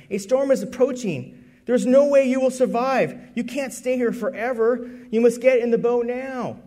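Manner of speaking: mildly stern rescuer; stern warning. Acted. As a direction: lay down the law to him. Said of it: "said sternly".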